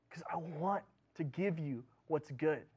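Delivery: soft, slow reassurance; a quiet loving promise; tender God. Retold or imitated. God reassuring the listener, softly and slowly.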